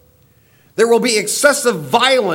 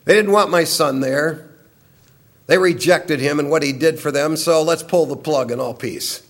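voicing God; 5 semitones lower than usual. Preacher voicing God's judgment on mankind, low and grave. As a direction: speak as God pulling the plug on peace. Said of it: "Now he's saying".

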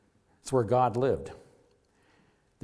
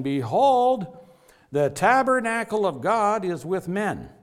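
raised and ringing, a declaration from on high; loud heavenly proclamation; 5 semitones higher, 5 dB louder, slower than usual. Retold or imitated. Preacher voicing the loud voice from heaven, ringing proclamation. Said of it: "I heard a loud voice".

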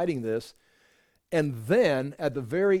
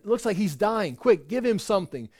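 higher, hurried alarm; urgent bystander; 4 semitones higher than usual. Acted. Soldier to others as Jesus is dying, urgent. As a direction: voice a soldier calling for quick help.

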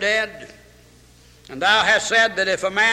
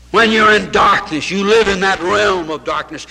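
louder preaching; 5 dB louder than usual. Acted. Preacher builds on darkness.

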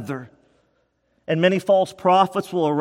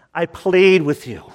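"plead" pushed out louder and harder; urgent plea, louder second time. Shown as a demonstration. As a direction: beg them, voice rising in urgency. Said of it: "with urgency, with love, with desperation".

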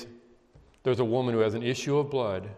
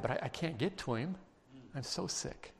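softly voiced desperate sick woman; weak, weary self-talk; 7 dB quieter than usual. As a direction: let it drop away softly, as if too sick to go on. Voices sick woman's private thoughts.

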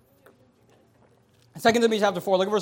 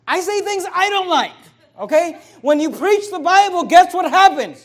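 much higher and louder, building hard; preaching at full force; 9 semitones higher, 9 dB louder than usual. Acted. Pastor defending hard truths to his church, shouted preaching. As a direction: fire it at the pews.

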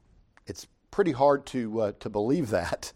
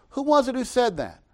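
mock puzzlement; 11 semitones higher, 3 dB louder than usual. Mock puzzled question about David.

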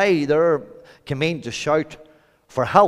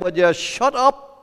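rebuke; 5 semitones higher, 7 dB louder than usual. Acted. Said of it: "In typical Northern Ireland, we would have said".

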